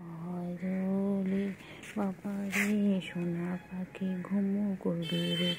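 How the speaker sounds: very slow, drawn-out lulling. Real, not acted. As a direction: coax the cat to sleep, slowly. Lulling the cat to sleep. (ধীর ঘুমপাড়ানি সুর)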